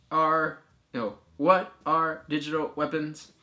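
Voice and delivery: bad robot voice. Host reading a viewer's question as requested, poor robot voice. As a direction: attempt a robot voice, not very convincingly. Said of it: "That's supposed to be my robot voice".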